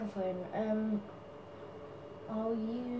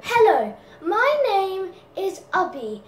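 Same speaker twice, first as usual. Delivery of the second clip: higher, louder channel intro; Ubby intro; 6 semitones higher, 4 dB louder than usual. Acted. Doing his own channel intro, higher and louder. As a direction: present the channel like a host. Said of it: "I forgot my own, um, stupid intro".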